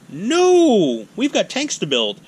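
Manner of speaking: high, loud, drawn-out no; mock outraged refusal. Politicians turning down preparedness spending, loud mock refusal. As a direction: refuse it out loud with comic exaggeration.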